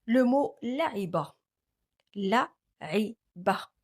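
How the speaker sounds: la'iba said carefully with a break before iba; Arabic word. Shown as a demonstration. Teacher modelling lam-initial word for students. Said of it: "Et au début de mot".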